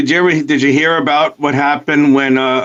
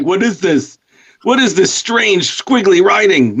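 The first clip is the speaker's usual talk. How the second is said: lightly voiced baffled millennial, higher pitched; a mock puzzled question, pitched up; 5 semitones higher than usual. Imagining millennials who find cursive writing, mock bafflement.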